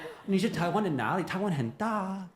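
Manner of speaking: high, loud mock insistence; playful asking back. Foreigner turning the where-from question back on Taiwanese, teasing and insistent. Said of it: "I'm gonna ask you back".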